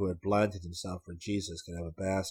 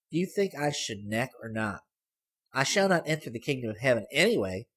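put-on sly girl; 4 semitones higher than usual. A narrator's reading. Girl surprising Hayes from the back seat, teasing. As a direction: pipe up high and pleased with herself.

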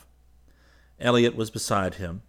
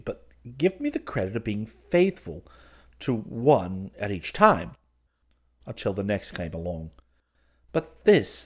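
put-on earnest lovelorn young man. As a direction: plead your case with theatrical earnestness. Clifford pleads his case.

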